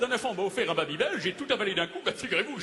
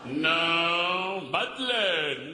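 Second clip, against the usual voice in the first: long drawn-out exasperated no; much slower than usual. Acted. Dramatist refusing Madeleine on the phone, exasperated. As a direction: stretch it out in theatrical dismay.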